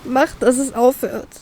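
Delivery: pleading with friends, mildly panicked. Acted. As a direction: beg for it to end. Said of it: "flehe ich panisch".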